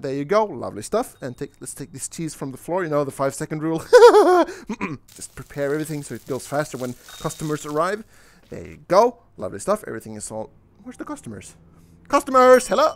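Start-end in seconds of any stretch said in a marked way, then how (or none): 3.8-5.0 loud, high-pitched laugh; silly high cackle; high giggle. Real, not acted. Joking about five-second rule. 12.1-12.9 loud, high call for customers; mock summons, pitched up and loud. Calling out for customers.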